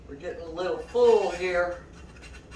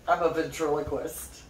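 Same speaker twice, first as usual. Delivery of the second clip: talking without moving the lips; mumbled through still lips like a ventriloquist; 3 semitones lower than usual. Pretend. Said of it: "Is that what that's supposed to be?".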